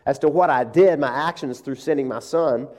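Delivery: a hint of God gently rebuking; God's gentle, loving rebuke, lightly played; lightly voiced God. God gently rebuking the worried pastor, mildly voiced. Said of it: "it's like God says".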